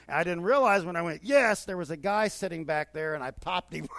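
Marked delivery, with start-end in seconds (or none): 1.2-1.6 high, loud retold cheer of joy; excited cheer. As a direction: relive the touchdown yell. Cheering a touchdown at a game.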